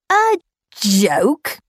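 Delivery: mild growl. Acted. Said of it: "growled Nakwang".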